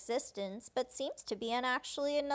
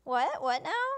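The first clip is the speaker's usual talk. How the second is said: mildly freaked-out questions, louder than usual; retold mild freak-out; 2 semitones higher, 4 dB louder than usual. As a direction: imitate a startled double-take. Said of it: "Pierce freaks out".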